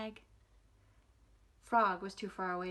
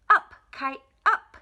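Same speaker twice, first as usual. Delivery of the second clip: loud high call to the sky; shout; 5 semitones higher, 13 dB louder than usual. A narrator's reading. Frog showing Toad how to shout at the kite, loud. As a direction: yell it up at the kite. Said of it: "and shout".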